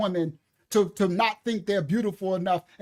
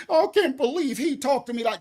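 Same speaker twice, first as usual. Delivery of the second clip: higher, prissy mock-offended whine; mocking offended woman; 4 semitones higher than usual. Host mocks the offended commenter, in a mock-offended whine. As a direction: play her clutching her pearls in mock outrage. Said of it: "you could call that controlling".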